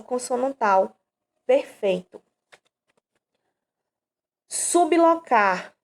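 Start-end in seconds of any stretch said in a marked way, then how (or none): 4.5-5.7 "Sublocar" split slowly into su-blo-car, higher; syllable by syllable. Shown as a demonstration. Teacher showing students the split, slow and syllabic. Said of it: "separa-se o encontro de B L".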